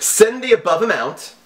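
mock scammer voice. Reading scam email in mock voice.

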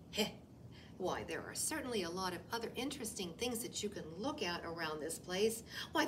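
lightly voiced fidgety rabbit; nervous rabbit. Rabbit distracts the wolf with grass and dirt.

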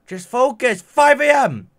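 high, loud, slow shouted threat; mock-furious yell at Carmen. Real, not acted. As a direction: bellow at the sleepy villager. Yelling at villager Carmen.

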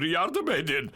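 high, frantic cries while stuck; panicked pleading. Acted. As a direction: beg them to stop touching, in pain. (paniklemiş, tiz sesle yalvaran itfaiyeci)

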